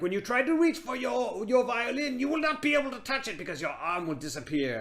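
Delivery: high mock witch voice. Witch warning of the curse, lightly high-voiced. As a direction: lift it up like a curse being laid. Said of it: "she was like".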